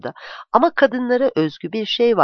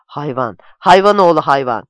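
narrated outburst of anger, building sharply in volume; angry shouted insult; 3 semitones lower, 9 dB louder than usual. A narrator's reading. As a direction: start low, then burst out loud on the second insult. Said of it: "diye bağırdı". (öfkeyle bağırarak)

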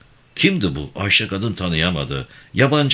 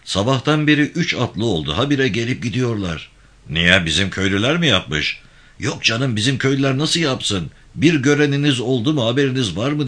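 higher-pitched servant's voice, relaying gossip; eager bearer of news, pitched up; servant Zühtü reporting; 6 semitones higher than usual. A narrator's reading. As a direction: report the village commotion to the master.

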